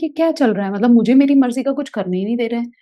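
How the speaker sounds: put-on the child fed up with being pushed around; frustrated inner rant. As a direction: let the anger spill out quickly. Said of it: "इतना गुस्सा आ रहा था".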